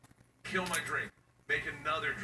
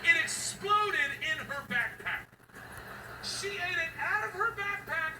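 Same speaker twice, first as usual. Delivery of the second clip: laughing; 13 semitones higher than usual. Real, not acted. Dad cracking up at backpack disaster. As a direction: laugh through the reveal.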